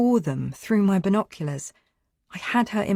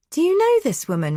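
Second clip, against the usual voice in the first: shocked demand; 13 semitones higher, 6 dB louder than usual. A narrator's reading. Girlfriend confronts him.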